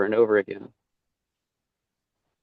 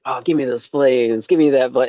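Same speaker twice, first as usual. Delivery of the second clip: mock grabby begging, a bit louder; greedy; 2 semitones higher, 5 dB louder than usual. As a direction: imitate greedy people clamoring for a blessing. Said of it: "really greedy about it".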